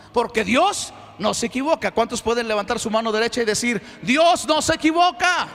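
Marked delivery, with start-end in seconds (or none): 4.0-5.5 full-voiced preacher's rallying cry; rallying shout. Real, not acted. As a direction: proclaim it loudly for the crowd to repeat. Leads congregation in a declaration.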